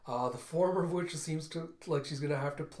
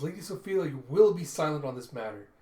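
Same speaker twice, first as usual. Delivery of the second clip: commanding, with a louder push midway; stern reprimand; 6 dB louder than usual. Acted. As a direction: silence them with authority. Acted reprimand from the comic.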